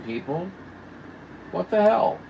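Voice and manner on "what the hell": sudden high, loud what the hell; exasperated outburst. Real, not acted. Streamer reacting to only three likes, exasperated shout. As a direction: blurt it out in disbelief.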